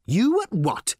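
high-pitched interrupting disbelief; incredulous. Acted. Writer interrupts the boss's company speech, incredulous. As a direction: cut in, baffled, pitch shooting up.

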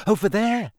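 high, nervous answer; shaky. A narrator's reading. Hermione pointing to where she heard the voice, shakily. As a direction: point it out fearfully. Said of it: "said Hermione shakily".

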